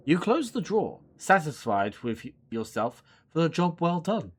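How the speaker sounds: expressive storybook narrator; story narration. A narrator's reading. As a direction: narrate the scene with care. Reads game narration.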